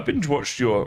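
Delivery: voice cracking. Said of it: "My voice just broke".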